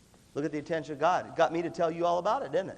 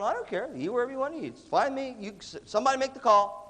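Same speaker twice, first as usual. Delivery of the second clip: easygoing group member; 7 semitones higher than usual. Acted. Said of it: "They're going".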